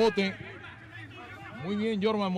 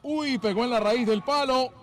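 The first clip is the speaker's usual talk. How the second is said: surprised; 4 semitones higher, 5 dB louder than usual. Real, not acted. Shot hits the post.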